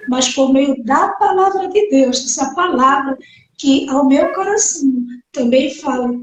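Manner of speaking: ordinary talk, nothing marked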